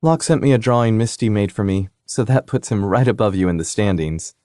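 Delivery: a bright, needling little sister; sister's voice. Acted. Sister teasing on phone.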